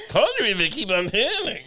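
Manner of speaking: a jokey Peter Lorre impersonation; high comic Peter Lorre voice; Peter Lorre impression. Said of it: "Peter Lorre".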